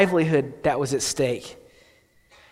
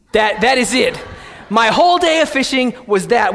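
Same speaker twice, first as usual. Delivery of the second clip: loud, laughing exclamation over a tiny fish; laughing disbelief; 3 semitones higher, 4 dB louder than usual. Real, not acted. Pastor laughing at his one small fish, loud and amused.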